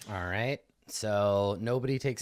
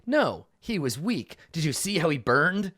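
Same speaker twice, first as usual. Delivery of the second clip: unremorseful; 3 semitones higher, 5 dB louder than usual. Acted. Acts an unremorseful killer's answer.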